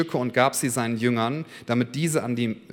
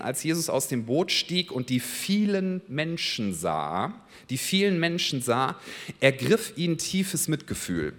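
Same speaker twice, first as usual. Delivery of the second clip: unhurried, weighted stress on "vielen", letting each phrase land; deliberate emphatic reading. Shown as a demonstration. Pastor rereads the verse for the congregation, deliberately emphatic. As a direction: read slowly, leaning on "vielen" and "tiefes Mitgefühl". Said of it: "nochmal ganz bewusst lesen".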